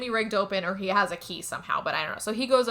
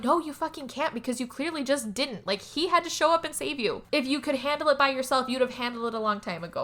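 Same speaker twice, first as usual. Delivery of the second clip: higher-pitched exasperated telling-off; frustrated rant; 3 semitones higher than usual. Pretend. Viewer scolding the film's heroine, frustrated rant. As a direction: argue back in mild exasperation. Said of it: "I get so frustrated".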